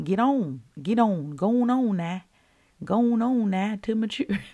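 playful Southern exhortation. Shown as a demonstration. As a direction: push them on in a down-home Southern accent. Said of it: "say it in my southern voice".

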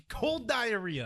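slow, high laughing punchline. Real, not acted. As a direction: laugh through the gag line.

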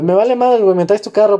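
angry order. Retold or imitated. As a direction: bark the order at your buddy. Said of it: "porque andaba emputado".

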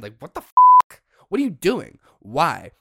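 shrieking high yell of disbelief; outraged shout. Real, not acted. Fan watching Mahomes kick over his stand, outraged shout. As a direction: yell like you can't believe it.

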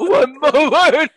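slow breathy echo through laughter; breathy voice imitation. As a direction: mimic the breathy threat. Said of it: "it was that breathy voice".

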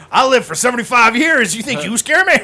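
put-on loud, defiant old man voice; tough old man. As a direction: snarl it like a fearless old man. Acting Uncle Bob's defiant line.

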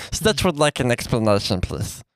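slow Stitch voice, high cry of his name. Pretend. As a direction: speak as the little alien. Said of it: "that's a really good voice".

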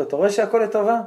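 high, loud, triumphant question; excited vindication. Retold or imitated. Dancer rescued from the pit to the king, triumphant. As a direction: ring it out as proof.

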